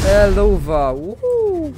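playful. Real, not acted. Cheerful greeting cry.

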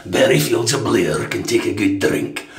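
slow, lightly gruff Scottish voice; drawn-out mock Scottish pitch; slow gruff Scottish hint. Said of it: "that gruff voice on".

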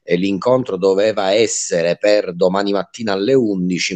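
normal talking voice

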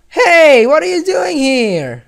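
a loud, high shout of surprise; startled character. Acted. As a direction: jump and call out, caught off guard.

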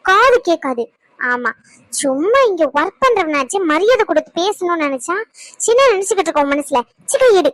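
heated threat, bursting out on stressed words; scolding that ends in a sharp order; angry. Acted. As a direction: warn him off indignantly. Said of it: "இதுக்கெல்லாம் இவ்ளோ கோவப்படுற".

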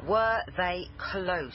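slow, firm, falling insistence; pointed second ask; insistent repeat. Acted. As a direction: press him until he answers. Repeats question, pressing for answer.

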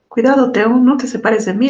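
warning. Acted. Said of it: "le advierte su mamá".

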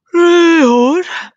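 geeuwend gezegd; gapend. A narrator's reading. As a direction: zeg het gapend. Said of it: "gaapt hij". (opa gaapt tegen oma)

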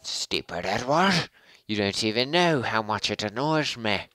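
hammed-up exasperation at a fake rival; mock annoyed scolding. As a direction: tell off stupid Edward with playful irritation. Scolding an imagined player.

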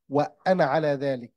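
وأنا with short final a, linked to على; continuous recitation, alif of وأنا dropped. Shown as a demonstration. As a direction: run وأنا straight into على, last vowel short. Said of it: "no pronunciation".

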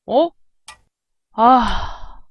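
usual speaking voice

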